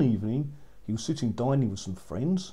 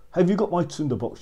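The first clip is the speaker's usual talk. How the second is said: shouted demand; 5 semitones higher, 6 dB louder, faster than usual. A narrator's reading. Witch shouting down into tree.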